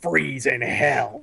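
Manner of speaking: slow, drawn-out villain line, lightly imitated; a hint of a deep fighter voice; Sub-Zero. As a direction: stretch out the ice pun like a mock scary fighter. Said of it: "the Sub-Zero voice, it's so deep".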